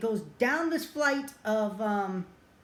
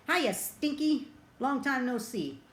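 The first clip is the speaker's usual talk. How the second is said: a slow, high, drawn-out teasing greeting; mock Chance, lightly acted, taunting the cats; cocky taunt; 5 semitones higher, slower than usual.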